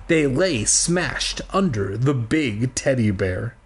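measured read-aloud storytelling; story narration. Acted. Reading a children's book aloud to listeners, storytelling. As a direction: read it out slowly and clearly like a storybook.

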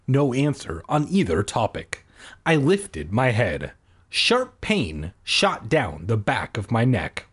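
measured audiobook read; story narration. A narrator's reading. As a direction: narrate it steadily, line by line. Reads the story aloud.

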